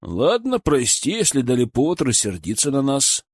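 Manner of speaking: мягкое примирение; извиниться, сглаживая ссору; примирительно. Acted. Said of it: "примирительно произнёс Николай". (примирительно, миролюбиво)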